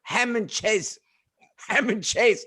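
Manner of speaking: "cheese" mispronounced as a cut-off "chisel"; cut-short pronunciation. Retold or imitated. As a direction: mimic "ham and cheese" as a clipped "ham and chase". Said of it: "Why did you stop at the last three letters".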